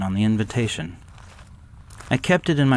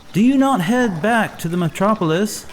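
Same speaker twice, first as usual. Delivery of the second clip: higher, louder call after a departing carriage; 10 semitones higher, 4 dB louder than usual. Acted. Narrator calling after the Dane to come back. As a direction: shout it after someone walking away.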